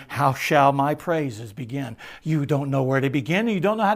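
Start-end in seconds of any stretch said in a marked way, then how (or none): 0.1-2.0 slow, lingering on each word; slow savoring. Real, not acted. Preacher to congregation, slowly savoring the hymn. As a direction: draw the line out slowly in wonder. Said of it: "That's how I feel".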